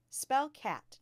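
loud, high classroom instruction; teacher's command. A narrator's reading. Teacher calls on a pupil.

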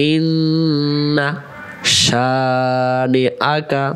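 ইন্না শানিআকা, drawn out; slow recitation. Shown as a demonstration. Teacher reciting the verse slowly. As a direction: stretch every syllable. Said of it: "তারপরে আয়াত".

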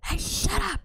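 high, loud yell of shut up; sharp shout. Shown as a demonstration. Gamer yelling at the in-game dog, loud high shout. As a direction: bark it at the dog loudly. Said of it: "how about I say".

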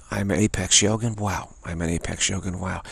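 quiet, steady chant of the affirmation; soft repeated mantra. Shown as a demonstration. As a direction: repeat it softly to yourself, falling away. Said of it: "and you just".

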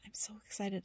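soft, moved whisper; touched, quietly emotional. Real, not acted. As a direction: hold back tears in a whisper. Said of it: "I am getting a little bit emotional".

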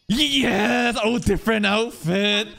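high, excited exclamation; delighted cheer. Real, not acted. Cheering as the girl reappears.

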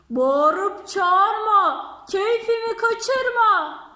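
slow, loud, drawn-out scolding rhyme. Acted. Fox scolds the elephant at the door, slow and loud. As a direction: scold each word slowly and loudly.

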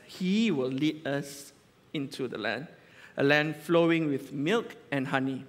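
slow, measured Bible reading; steady reverent reading aloud; scripture reading. Acted. Reads scripture slowly.

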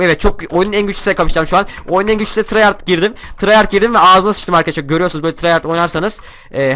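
high, loud, fast boasting; excited bragging. Real, not acted. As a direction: crow about the win. Boasting after a kill.

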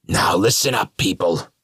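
loud, high rallying shout; Carnage crying out. A narrator's reading. Carnage calling the killers to listen, loud cry. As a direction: grab the crowd's attention like a showman. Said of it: "Carnage cried".

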